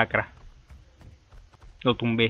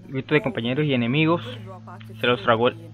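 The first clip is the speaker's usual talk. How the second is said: soft, measured reading aloud; story narration; 6 dB quieter than usual. A narrator's reading. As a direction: read the battle tale quietly. Reads game's story text aloud. (narración en voz baja)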